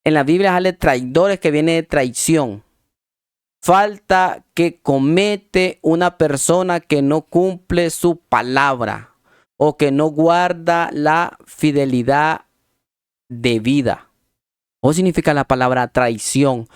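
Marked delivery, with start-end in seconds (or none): 3.6-14.1 slow, measured dictionary reading; deliberate, spaced-out definition reading. Real, not acted. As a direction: read it out slowly, word by word. Reads out a definition.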